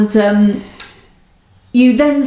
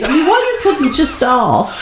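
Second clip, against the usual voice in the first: ordinary talk, nothing marked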